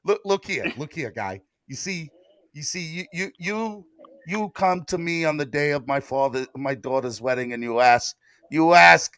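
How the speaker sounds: a hushed don granting an audience; mock Godfather. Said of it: "I'm getting carried away".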